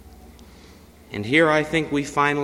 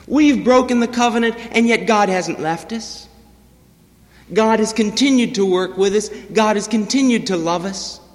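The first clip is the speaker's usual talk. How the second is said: raised, fervent wonder, higher and louder; marveling; 6 semitones higher, 4 dB louder than usual. Retold or imitated. Israel marveling at God's steadfast love, raised and fervent. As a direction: marvel aloud at the mercy. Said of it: "they, they marvel".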